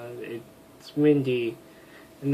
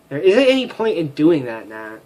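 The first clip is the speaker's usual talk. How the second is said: louder, more insistent refusal; firmer retake; 3 semitones higher, 5 dB louder than usual. Shown as a demonstration. To Nat, a firmer louder refusal. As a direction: push the line harder. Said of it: "I keep making her sound like this".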